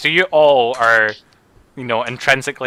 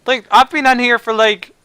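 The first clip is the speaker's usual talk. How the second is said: high goblin voice; 8 semitones higher, 4 dB louder than usual. Acted.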